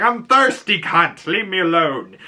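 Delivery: a hint of the crude knight. Sir Lionel leaving tug of war for a drink, lightly voiced. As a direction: brush everyone off, lightly voiced.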